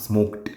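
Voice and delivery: "Smoked" loud, with a released final t; E D stressed. Shown as a demonstration. Teacher distinguishing smoked from smoke, ending stressed. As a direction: punch out "Smoked", t clear after the k. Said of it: "you need to stress on those words".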